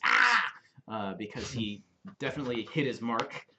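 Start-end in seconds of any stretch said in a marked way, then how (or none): 0.0-0.5 high, loud yelp of pain; goblin yelp. Retold or imitated. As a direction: yelp like a goblin that just got kicked. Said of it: "like, this".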